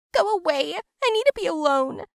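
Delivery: Go away shout. Acted. Gina shouting in quarrel.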